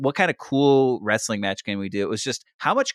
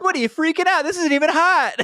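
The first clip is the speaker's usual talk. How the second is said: mocking The Rock; faster than usual. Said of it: "it's like".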